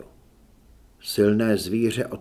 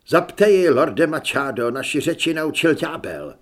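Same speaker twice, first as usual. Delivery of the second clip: alarmed urging; 3 semitones higher, 6 dB louder than usual. A narrator's reading. Monk urging lord, alarmed.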